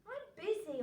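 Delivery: put-on a boy's shouted answer; shouting back. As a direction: call back from the house. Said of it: "Oliver shouted back".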